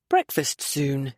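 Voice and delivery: low, slow thought; inner thought. Acted. Keir alone smelling bacon, low slow thought. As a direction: think it lazily to himself. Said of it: "he thought".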